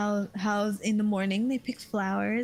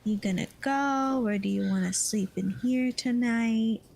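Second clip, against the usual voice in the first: put-on hushed child. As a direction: ask it in a hushed kid's whisper. Child asking at bedtime.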